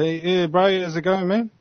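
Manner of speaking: lightly imitated Auckland accent; a hint of Auckland in a casual greeting. Shown as a demonstration. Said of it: "then there's the Auckland accent".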